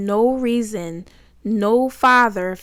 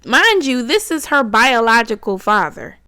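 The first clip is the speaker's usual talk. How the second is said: indignant emphasis; 4 dB louder than usual. Real, not acted. Stressing outrage to viewers.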